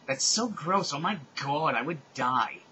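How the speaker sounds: dramatic, emphatic disgust; grossed-out. Acted. Rodolphe reacting to a bad smell, dramatically disgusted. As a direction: play up being totally grossed out.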